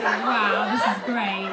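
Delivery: breathy pleased aside; mock blissed-out sigh. Comic miming bliss on the bus, mock dreamy. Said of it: "just say".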